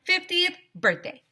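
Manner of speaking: high, bright character voice; lighthearted protest; girlish squeak; high childlike voice. Acted. Narrator protesting then principal.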